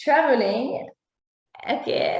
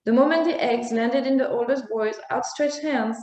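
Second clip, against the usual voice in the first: story narration; 2 semitones higher than usual. A narrator's reading. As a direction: read it like a bedtime tale for children.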